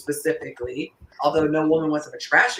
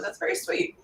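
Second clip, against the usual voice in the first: touched cooing; 11 semitones higher, 7 dB quieter than usual. Real, not acted. Touched by a listener's answer.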